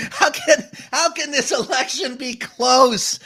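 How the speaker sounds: asked through a laugh; an amused, incredulous question; laughing disbelief. Real, not acted. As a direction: laugh while asking in disbelief.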